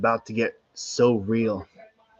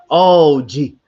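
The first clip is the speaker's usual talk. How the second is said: yelling at the racetrack; 6 semitones higher, 6 dB louder, slower than usual. Real, not acted. Watching race finish, calling out.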